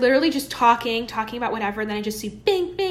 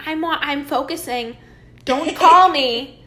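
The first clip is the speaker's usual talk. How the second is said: mock annoyed brush-off; 4 semitones higher, slower than usual. Retold telling off her friend.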